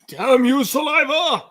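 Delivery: high, loud mock outrage; mock dramatic curse. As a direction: shake a fist at saliva. Mock cursing the saliva.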